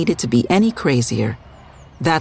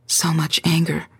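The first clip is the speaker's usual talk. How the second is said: sad; 2 semitones higher than usual. Acted. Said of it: "Charlotte said sadly".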